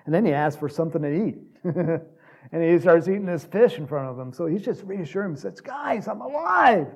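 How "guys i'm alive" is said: high, loud, stretched-out exclamation; jubilant announcement. Acted. Preacher as Jesus reassuring his friends, jubilant. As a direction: burst out with joyful news. Acting Jesus revealing himself to disciples.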